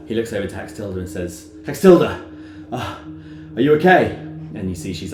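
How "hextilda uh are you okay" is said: higher, loud call; concerned NPC. Acted. Lord calling to Hextilda, high and loud.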